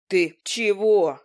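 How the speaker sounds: put-on scared young man blurting "Ты чего"; startled groom. Cornered groom asks Demian, a startled drawn-out "Ты чего".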